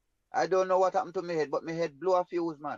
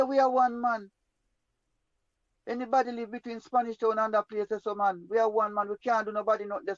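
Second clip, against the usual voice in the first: higher-pitched imitated appeal; retold pleading; 4 semitones higher than usual. Confronted man appeals to the one he wronged, imitated pleading. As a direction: plead your case in a raised pitch.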